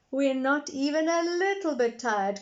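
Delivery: put-on high cheeky little girl. A narrator's reading. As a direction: shout it playfully like a small girl. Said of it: "cried Peppa".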